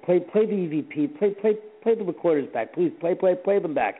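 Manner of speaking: urgent stuttering repeats. Retold or imitated. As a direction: stumble over the words urgently. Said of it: "I kept stuttering".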